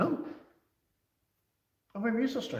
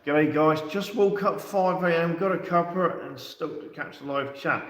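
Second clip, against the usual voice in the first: put-on Australian accent; 3 semitones higher than usual. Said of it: "good morning to you from, uh, Australia".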